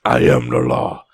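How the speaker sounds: low, slow, tough-guy voice; deadpan movie enforcer line; gruff action hero. Pretend. Judge Dredd style boast.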